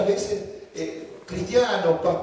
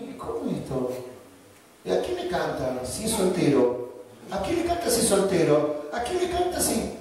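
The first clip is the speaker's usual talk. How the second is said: mock bewilderment; 4 semitones lower than usual. Pastor's incredulous reaction.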